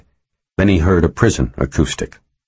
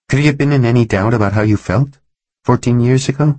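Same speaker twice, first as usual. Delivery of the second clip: higher, questioning female character; pressing him, pitched up; probing woman lawyer; 8 semitones higher, faster than usual. A narrator's reading. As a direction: lift the voice into an insistent question. Voices Helen questioning Reacher.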